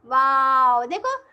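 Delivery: loud delighted wow; excited wow. Acted. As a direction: burst out in wonder. Teacher exclaiming to kids.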